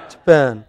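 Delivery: Japan, second syllable stressed and falling; last-syllable stress. Shown as a demonstration. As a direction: punch the end of Japan. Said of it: "where last part is emphasized".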